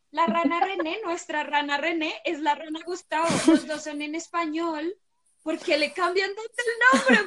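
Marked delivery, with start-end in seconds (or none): 5.4-7.3 mock wail. Outraged about the frog's name.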